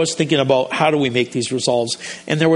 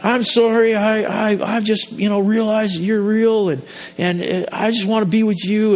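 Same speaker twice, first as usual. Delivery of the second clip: eager prayer; 4 semitones higher than usual. Retold or imitated. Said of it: "he was just like".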